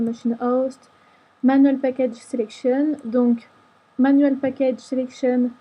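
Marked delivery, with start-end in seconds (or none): 1.4-3.0 English words with a French accent. Real, not acted. Tutor reading an English menu option to viewers, French-accented English. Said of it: "excusez-moi pour mon accent anglais". 4.0-5.5 English words with a French accent. Real, not acted. Tutor reading an English menu option to viewers, French-accented English. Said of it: "excusez-moi pour mon accent anglais".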